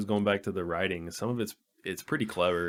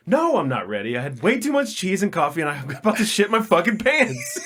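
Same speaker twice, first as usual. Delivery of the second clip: high, loud, whining mock panic; laughing through a high whiny complaint; whiny panicked guy; 9 semitones higher, 5 dB louder than usual. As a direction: squeal it like he's about to burst. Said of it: "He's like".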